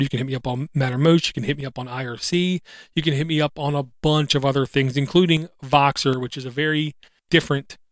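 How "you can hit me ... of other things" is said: ordinary talk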